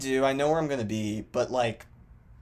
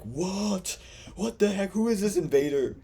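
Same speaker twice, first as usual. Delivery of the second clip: baffled classmate; 9 semitones higher, 4 dB louder than usual. Retold or imitated. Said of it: "and they're like".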